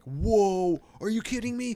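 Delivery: high, loud gasp of disbelief; shocked girlfriend. Retold or imitated. Girlfriend squealing at the psychic's price. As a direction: squeal it like you can't believe it. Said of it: "And she was like".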